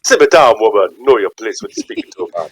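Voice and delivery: curt put-down, loud at the start; sharp, rude. Acted. Player's character rebuking a noblewoman, sharp and rude. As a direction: put her in her place, starting forcefully. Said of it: "No, I've just been sharp".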